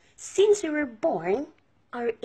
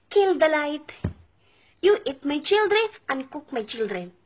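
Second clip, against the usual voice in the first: higher mock demand in broken English; 3 semitones higher than usual. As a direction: imitate someone blurting a garbled order. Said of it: "Not that you will say".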